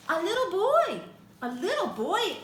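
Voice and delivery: a grandma startled at her door; surprised. A narrator's reading. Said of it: "Omu explained".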